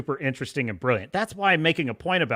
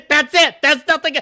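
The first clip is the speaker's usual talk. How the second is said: laughing disbelief; 9 semitones higher, 7 dB louder than usual. Real, not acted. Laughing rant at the show.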